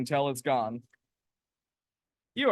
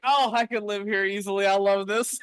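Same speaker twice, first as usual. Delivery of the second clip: delighted; 6 semitones higher, 4 dB louder than usual. Retold or imitated. Retold delighted reaction in diner.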